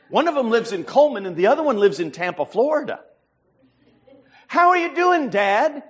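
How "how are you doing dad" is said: imitating a caller's Hispanic accent, higher. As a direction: Hispanic accent, "How" lifted high. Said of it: "a voice with an Hispanic accent".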